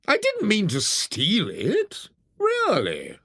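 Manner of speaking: slightly slow, teary plea; tearful excuse. A narrator's reading. Toad excuses stealing the car to the driver, teary plea. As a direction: snivel out a weak excuse.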